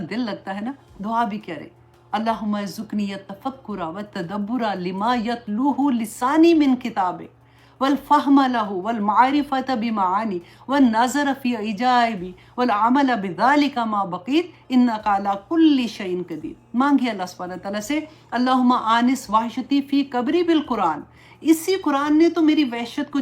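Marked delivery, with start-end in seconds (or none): 2.1-16.5 slow, measured recitation of an Arabic supplication; prayer recitation. Acted. Teacher reciting a dua for her students, slow and devout. 18.3-21.0 prayer recitation. Acted. Recites an Arabic dua.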